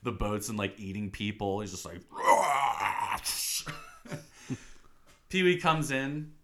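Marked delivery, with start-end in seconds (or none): 2.0-3.8 imitated monster roar; playful rasping roar; Godzilla roar. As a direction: roar like a movie monster destroying boats. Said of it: "like he's Godzilla".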